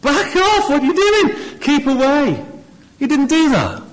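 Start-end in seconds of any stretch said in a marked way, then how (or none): 0.0-2.5 shooing the leper. Pretend. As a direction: shoo him away like an outraged rabbi. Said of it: "Jesus didn't say".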